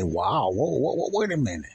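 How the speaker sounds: catching himself lightly, not yet alarmed; mild surprise. Retold or imitated. Telling his audience how his mind stops him, mildly surprised. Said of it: "And I use it and I say".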